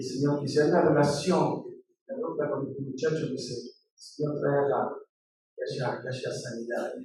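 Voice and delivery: low, soft intercession; subdued, tender retold prayer; quiet prayer. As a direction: pray gently for someone hurting. Retells prayer for hurting man.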